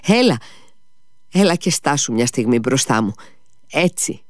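sudden high call, then pleading. Acted. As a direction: call him back urgently. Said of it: "ο Μήτια τον ξαναφώναξε".

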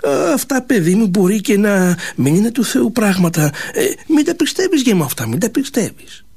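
a lightly voiced worried old mother; mild old mother's warning. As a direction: warn him gently like a fretting mother.

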